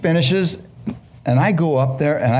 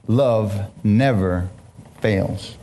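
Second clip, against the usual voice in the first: slow, softening scripture line; quoting scripture; 5 semitones lower, much slower than usual. Acted. Preacher reading First Corinthians to the church, slow and tender. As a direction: let it land gently. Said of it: "know that's a love chapter".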